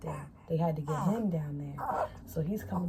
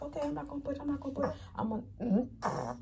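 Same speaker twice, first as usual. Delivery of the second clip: mock innocence; 9 semitones higher than usual. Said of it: "I'm like".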